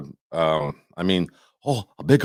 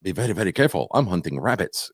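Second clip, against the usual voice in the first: Elmer Fudd; 3 semitones lower, 4 dB quieter, faster than usual. Retold or imitated. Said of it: "It sounded more like".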